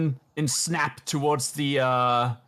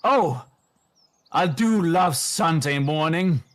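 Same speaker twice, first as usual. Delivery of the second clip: a hint of a smug, scheming cultist; cultist puppet; 3 semitones higher, 3 dB louder than usual. Cultist puppet gloating to the crowd, a touch smug. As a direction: savour it with mock contentment. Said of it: "The cultist".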